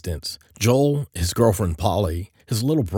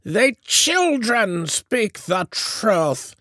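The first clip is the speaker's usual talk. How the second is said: slow, high-pitched witchy intoning; richly foreboding; much slower than usual. A narrator's reading. Witch queen addressing a mortal, foreboding. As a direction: intone it ominously, drawing out the words. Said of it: "in a richly foreboding voice".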